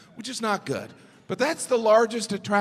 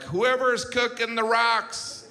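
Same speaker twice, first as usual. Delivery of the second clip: fed-up complaint; 4 semitones higher, slower than usual. Pretend. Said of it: "I always look at the rocks like".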